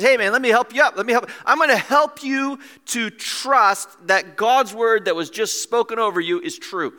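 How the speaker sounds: loud, urgent offer of help; rousing helper's voice; eager encouragement. Acted. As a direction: urge him up with conviction. Acts out Peter helping the man.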